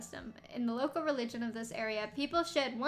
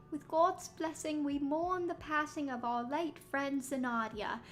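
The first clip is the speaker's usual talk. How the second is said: slow, crying eulogy voice. Acted. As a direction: read it through mock tears, slowly. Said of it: "this is my crying voice now".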